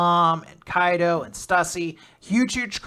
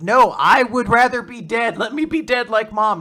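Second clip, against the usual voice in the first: higher, louder hammed-up despair; mock despairing Kuma; 7 semitones higher, 9 dB louder than usual. Retelling Kuma's reply to his dad, mock despairing. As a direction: whine it like a gloomy kid. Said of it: "It's like".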